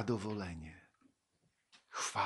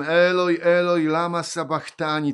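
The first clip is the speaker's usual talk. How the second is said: loud, raised scripture cry; retold loud cry; 6 semitones higher, 12 dB louder than usual. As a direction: read it as Jesus calling out loudly. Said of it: "zawołał Jezus donośnym głosem". (donośne wołanie w czytanym Piśmie)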